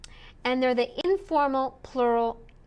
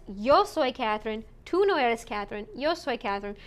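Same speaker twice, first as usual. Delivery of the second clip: "yo" hit firmly each time; "yo" pronounced with weight, set against "tú"; stress on yo; faster than usual. Shown as a demonstration. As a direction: lean hard on "yo" to insist it is you. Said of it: "for emphasis".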